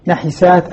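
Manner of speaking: first نحسات as "na-hi-saat", second as "nah-saat"; voweled ح in the first نحسات, silent-vowel ح in the second; two readings contrasted. Shown as a demonstration. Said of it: "إما يقول نحسات أو نحسات بتخفيف الحاء".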